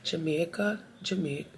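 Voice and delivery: half-hearted Jamaican accent attempt; botched Jamaican accent. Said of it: "what kind of accent was that".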